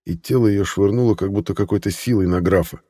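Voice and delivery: normal talking voice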